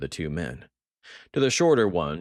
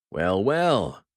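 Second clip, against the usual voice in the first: mock warmth; 4 semitones higher, 6 dB louder than usual. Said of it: "his voice dripping with mock warmth".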